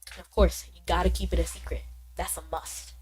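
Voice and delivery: lightly voiced Southern character; Walter. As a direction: confide it in a Southern accent. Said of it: "giving him a southern accent".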